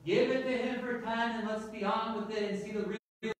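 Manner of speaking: lightly acted shout from the crowd; mild crowd shout. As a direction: call out impatiently, only half shouting. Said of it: "Voices from the crowd shouted out".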